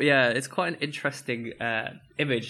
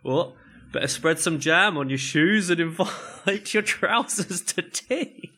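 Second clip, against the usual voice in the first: imitating dad; 4 semitones higher, slower than usual. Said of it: "your dad would go".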